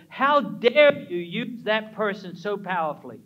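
mock outrage of the enemy; indignant challenge.

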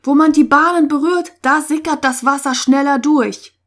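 loud, high, urgent explanation; calling out. A narrator's reading. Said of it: "rief Lutz".

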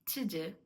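"to do" with "to" cut to a schwa; reduced "to". Shown as a demonstration. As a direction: barely voice the vowel of "to" before "do". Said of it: "да, а". (коротеньке "to" перед "do")

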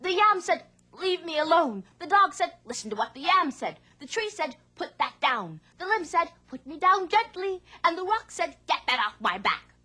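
high, breathless panicked retelling; frightened farmer. Acted. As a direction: gabble it out in a fright. Man tells fisherman, panicked.

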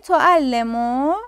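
تعلمو drawn out slowly, each sound held; teacher spelling out تعلمو very slowly; slow demo word. Shown as a demonstration. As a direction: stretch تعلمو out slowly for the class. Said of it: "الان نگاه کنید".

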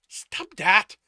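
high, loud sharp command; angry snap. A narrator's reading. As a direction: cut them off with a shouted order. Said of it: "Sto snapped".

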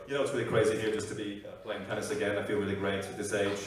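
low, soft tennis-star impression; Roger Federer. Tennis player talking about playing again, low soft put-on voice. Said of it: "Roger Federer".

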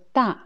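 "ta" in Mandarin fourth tone, falling. Shown as a demonstration. Teacher introducing the tenth character, fourth tone. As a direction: say "ta" with a falling pitch. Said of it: "aussi quatrième ton".

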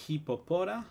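hippopotami con ai final, falso plural latino; plural incorrecto. Shown as a demonstration. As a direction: di hippopotami como error típico. (hippopotami dicho a modo de error)

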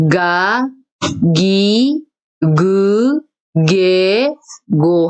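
탁음 반복 시범; voiced sounds. Shown as a demonstration. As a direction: repeat 가 기 그 게 고 for students. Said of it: "성대에 손을 대고".

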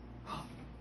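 soft, breath-only gasp; small mock gasp. Host peeking into a mystery box, small pretend gasp. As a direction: gasp quietly in pretend surprise.

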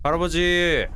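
길게 끌며 부르기; 집 안의 할아버지를 부르듯; 부르는 소리. Pretend. (길게 부르는 목소리)

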